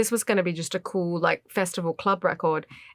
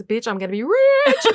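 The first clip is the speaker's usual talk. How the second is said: hammed-up exultant squeal; gleeful shriek; 4 semitones higher, 4 dB louder than usual. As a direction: act out screaming the news to a sister. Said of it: "like this".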